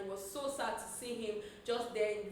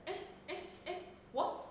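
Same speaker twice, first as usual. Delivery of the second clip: stunned disbelief; 7 semitones higher, 5 dB quieter, faster than usual. Retold or imitated. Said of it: "And Iyabo was like".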